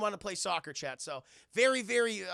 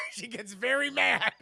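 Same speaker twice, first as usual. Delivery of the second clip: louder, high, laughing through it; 4 semitones higher, 9 dB louder, slower than usual. Real, not acted. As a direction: crack up while saying it. Laughing retelling.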